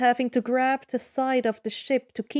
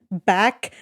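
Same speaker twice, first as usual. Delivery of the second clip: firm urging; 3 semitones lower, 5 dB louder than usual. Acted. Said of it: "Odysseus wills him".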